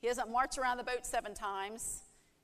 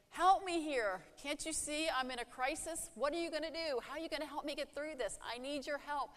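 desperate plea; 5 semitones higher than usual. Acted. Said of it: "Go to Jesus and say".

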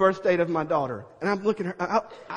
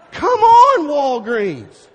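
much higher and louder, fed-up; hollering at the pharmacy in mock outrage; exasperated yell; 7 semitones higher, 12 dB louder, much slower than usual. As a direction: come on, a loud, high complaint. Mock complaint at slow pharmacy.

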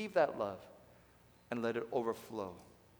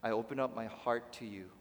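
humble prayer; 3 semitones lower than usual. Shown as a demonstration. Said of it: "you come in and say".

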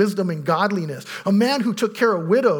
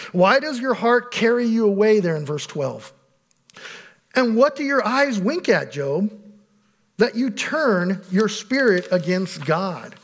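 raised, slow scripture declaiming; scripture reading; 2 semitones higher, slower than usual. Acted. Pastor reading Eliphaz's rebuke aloud, slow and declaiming. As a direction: weigh each accusing question slowly.

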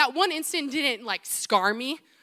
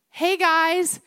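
bright, louder, higher call of hello; cheery hello; 6 semitones higher, 5 dB louder than usual. Retold or imitated. Kid calling hi to big sisters, excited. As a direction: call out happily to the siblings. Cheerful greeting to family at home.

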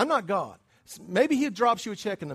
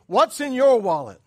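loud, raised-pitch pitchman's challenge; mock ad slogan; 5 semitones higher, 10 dB louder than usual. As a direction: belt it out like a pushy card advertiser. Mimics the credit card ad slogan.

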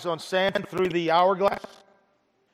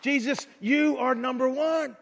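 earnest worshipper; 4 semitones higher, slower than usual. Retold or imitated. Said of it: "we say".

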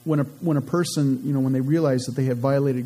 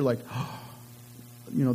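mock gasp; 7 dB quieter, much faster than usual. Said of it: "look to one another in fear".

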